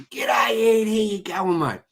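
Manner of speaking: high, loud hail to a mate; loud mate's greeting. Retold or imitated. Subscriber walks up at the pub, loud high greeting. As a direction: call out a big matey hello. Bloke walks up, hailing him.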